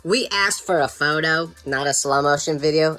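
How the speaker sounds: put-on drawn-out southern-accented correction. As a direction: imitate an unimpressed southern lady. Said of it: "she has a southern accent".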